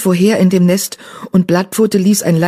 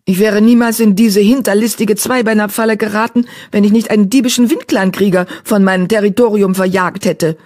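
indignant, pitched-up grumble; growling; 5 semitones higher, 3 dB louder than usual. Acted. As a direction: complain with a touch of a growl. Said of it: "knurrte die Kätzin".

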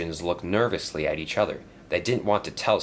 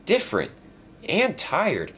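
higher, bright-hearted little engine; concerned friend noticing changes; lightly voiced friendly engine; 13 semitones higher than usual. Rosie asking Stepney if all is well, in a higher voice.

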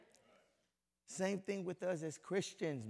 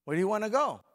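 higher, louder imitation of the wife; wife asking again; 6 semitones higher, 11 dB louder, faster than usual. Preacher mimics the wife asking, higher and louder. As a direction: push the wife's question up and out. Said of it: "what's the first thing she's gonna say".

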